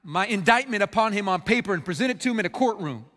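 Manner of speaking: mildly indignant, arrogant demand to be heard; arrogant challenge. Acted. Job takes his complaint to God, arrogantly. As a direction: press the case with a touch of defiance. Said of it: "he comes before God so arrogantly".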